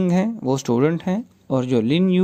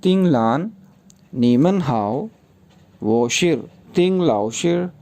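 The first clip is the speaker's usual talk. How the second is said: reading dialogue in Chinese. Shown as a demonstration. Teacher reading the whole Chinese dialogue aloud for pronunciation practice. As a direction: read the Chinese lines for them to hear. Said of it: "मैं इसको Chinese में ही pronounce करूँगा".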